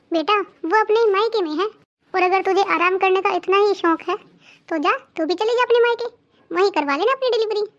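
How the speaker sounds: loud scolding mother-in-law; angry rebuke. Acted. Mother-in-law angrily rebukes daughter-in-law.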